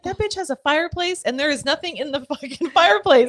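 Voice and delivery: high, excited mock outrage; excited outburst. Friend ranting about a reality star's empty fireplace, high and excited. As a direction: squeal it in disbelief. Mocking Kardashian home, high.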